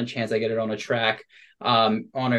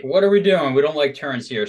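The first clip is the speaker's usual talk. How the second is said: high, louder mock-alarmed voice for the ankle; ankle complaining; 4 semitones higher, 6 dB louder than usual. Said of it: "my ankle kinda was like".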